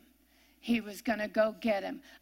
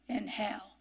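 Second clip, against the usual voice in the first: whispered; 3 semitones lower, 8 dB quieter than usual. Shown as a demonstration. Preacher to congregation, whispering the final words. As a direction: breathe in hell as a whisper. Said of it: "let's take a look at these words".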